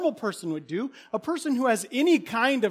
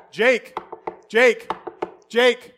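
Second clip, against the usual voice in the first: calling out; 7 dB louder, much slower than usual. Acted. Calling neighbour from the door.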